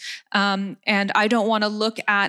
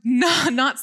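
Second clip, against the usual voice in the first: laughing; 4 semitones higher than usual. Real, not acted. Laughs after mock plea.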